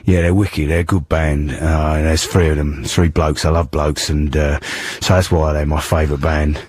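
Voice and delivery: lightly voiced London tough-guy act through a croaky cold; a hint of a Cockney film hard man; Ray Winstone. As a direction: pretend to be a gruff Cockney actor. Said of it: "Ray Winston".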